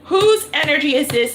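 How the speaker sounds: insistent retold demand. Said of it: "I said, I said".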